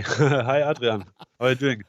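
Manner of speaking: Adrian with a German uvular r, Ah-dree-ahn; German accent. Pretend. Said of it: "I wanted to establish the German accent".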